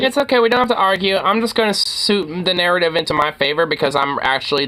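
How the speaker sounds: high-pitched mock placating voice; put-on voice of fake innocence; mocking congresswoman. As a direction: parody her, starting high and easing down. Parodies the congresswoman just played.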